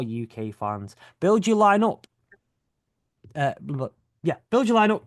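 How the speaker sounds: lightly performed podcast ad read; sponsor read. Acted. Podcaster plugging a sponsor to listeners, upbeat ad read. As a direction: pitch the fantasy app to listeners.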